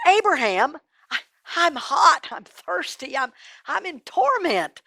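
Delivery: high, halting plea; acted suffering, stumbling as he begs; pleading in torment. Tormented rich man pleads.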